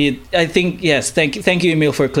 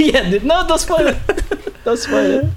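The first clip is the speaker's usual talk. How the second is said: high laughing plea not to spoil it; laughing protest; 13 semitones higher than usual. Real, not acted. Host laughing and begging his co-host not to spoil the movie. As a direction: squeal it through laughter, begging him to stop.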